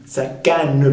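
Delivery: "Sa canne" ending in an added eu; three-syllable "Sa canne"; sounded final E. Shown as a demonstration. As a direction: say "Sa canne" as sa ca-neu. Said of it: "podría ser si me exige la melodía".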